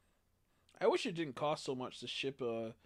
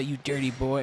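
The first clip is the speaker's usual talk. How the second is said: imitating video quote; 6 dB louder than usual. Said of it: "I'm trying to say".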